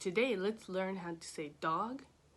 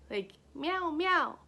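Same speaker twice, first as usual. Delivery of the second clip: cat meow imitation; 7 semitones higher, 4 dB louder, slower than usual. Shown as a demonstration. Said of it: "what cat cries like".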